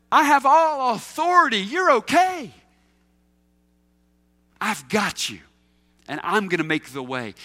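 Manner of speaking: lightly voiced Jesus, reassuring; Jesus speaking to his followers. Jesus encouraging doubting disciples, a hint of tenderness. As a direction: speak as Jesus sending them out, calm and sure.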